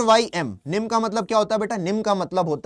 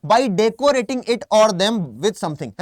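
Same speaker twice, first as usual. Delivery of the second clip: slow definition read; much slower than usual. Shown as a demonstration. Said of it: "reading definition".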